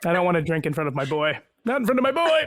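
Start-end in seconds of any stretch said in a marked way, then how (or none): 1.6-2.4 high-pitched playful cooing protest; mock protest. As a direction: squeal it in a put-on, much higher voice. Playful exaggerated repeat about the boy.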